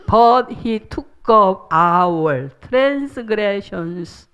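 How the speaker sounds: very slow, solemn English recitation; scripture reading. Acted. Preacher reciting Isaiah to the congregation slowly. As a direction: read each word as holy.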